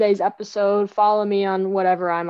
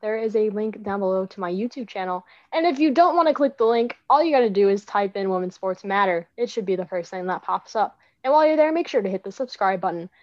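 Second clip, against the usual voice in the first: announcer voice. Acted. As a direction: sign off like a radio host. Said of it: "my nice announcer voice ending".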